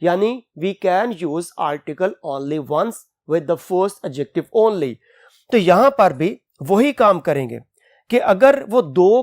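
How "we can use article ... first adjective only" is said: slow, careful rule dictation; dictating a rule. Shown as a demonstration. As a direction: spell the rule out slowly. Teacher reads rule slowly. (धीमा नियम लिखवाना)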